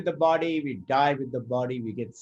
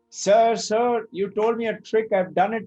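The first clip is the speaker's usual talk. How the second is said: raised, rushed pleading; flustered plea; 6 semitones higher, 3 dB louder than usual. Retold or imitated. Washerman pleads with the wise man, high and rushed. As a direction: hurry the words out in a panic.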